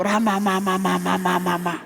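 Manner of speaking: repeated syllables running down in pitch and volume; imitated tongues. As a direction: imitate babbling in tongues, trailing down. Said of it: "falando uma língua".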